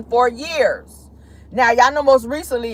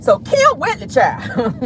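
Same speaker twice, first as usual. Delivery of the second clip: excited gossip; 4 semitones higher, slower than usual. Real, not acted. Dishing celebrity gossip.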